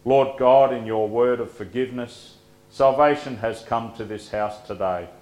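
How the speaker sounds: resonant closing prayer, building; cathedral echo. Acted. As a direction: lift the collect up, then settle on Amen. Closing collect said with force.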